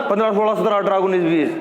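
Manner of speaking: numbers run together, final h dropped; careless counting. Retold or imitated. Teacher mimicking students' counting, slurred endings. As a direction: rattle पन्द्रह to बीस off as 'pandra, sola'. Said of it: "यही तो बोलते हो आप गिनती".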